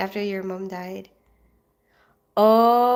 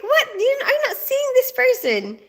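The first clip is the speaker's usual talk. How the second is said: high, loud mock disbelief; retold surprise; 3 dB louder than usual. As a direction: replay your own baffled reply. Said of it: "And I'm like".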